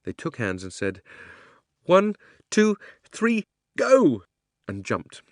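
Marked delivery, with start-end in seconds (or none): 1.8-4.2 loud, high count-off. Acted. Children jumping into the pool together, loud countdown. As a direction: psych up for the jump.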